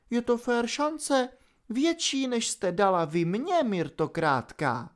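high, soft, sly villainess voice; a cruel fairy toying with her victim; mocking villainess. A narrator's reading. Opal taunting, after theatrical breath. (vysoký, posměšný hlas padoušky)

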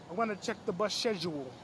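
put-on "I'm gonna check the bus schedule" redone in the intended accent; corrected accent. Fixing his accent after the wrong one. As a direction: retake the line in the right put-on accent. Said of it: "I got the wrong accent".

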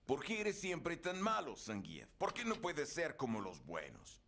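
voz interior. Retold or imitated. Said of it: "me dije".

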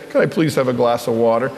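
mock a well-mannered child asking; asking nicely. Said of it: "weren't asking it very nicely".

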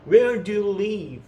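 slow, deliberate model line; slow repeat-after-me. Shown as a demonstration. Teacher leads the class in repeating, slow and careful. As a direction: spell out each word slowly for learners. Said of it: "따라하셔야 돼요".

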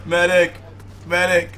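high calls for a medic; man down shout. Pretend. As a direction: shout like a wounded soldier. Downed character calling medic.

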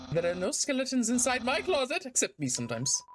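theatrical skeleton with a sheepish drop; skeleton character. Acted. Voices game character's dialogue.

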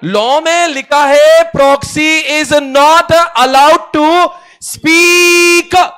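very high, loud, drawn-out yell; mock shouting. Teacher hammers home the line of law, mock shouting. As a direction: bellow it slowly, word by word, stretching the last one. Acts out reading law at someone.

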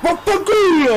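sudden angry outburst; angry swearing. Real, not acted. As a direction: spit out the curse in frustration. Rage at the game. (imprecazione rabbiosa)

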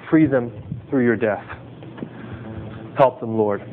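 fervent pastoral prayer, pleading then hushed; earnest prayer. Acted. Pastor prays over the congregation for freedom from sin, earnest and fervent.

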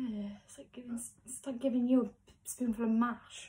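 talking through a mouthful; mouth full of peanut butter. Real, not acted. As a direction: mouth full, words muffled. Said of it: "I'm now having a spoonful of peanut butter".

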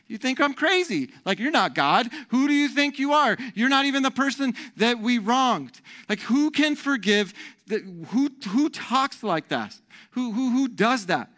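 high, incredulous protest; indignant retort. Acted. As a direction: challenge a presumptuous stranger. Acts outraged person refusing forgiveness.

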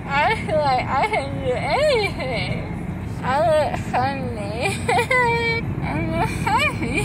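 giddy drugged high voice, crying laughs; loopy from anesthesia, teary and giggly; after wisdom teeth. Real, not acted.

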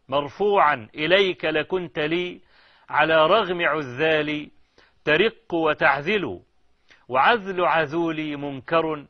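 measured classical Arabic verse recitation; poem recitation. Acted. Lover addressing his absent beloved in verse, measured poem recitation. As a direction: recite each hemistich evenly, pausing between.

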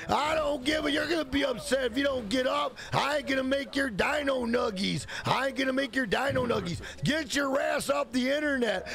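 mock yelling mom. Mom shouting at Billy to log off, mock yell. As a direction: yell at the kid like a fed-up mother.

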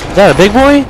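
high, loud alarmed question; startled at a big enemy. Real, not acted.

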